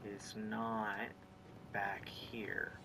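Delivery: whispered aside to herself; whispering. Real, not acted. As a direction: breathe it under your breath. Muttering to herself while searching.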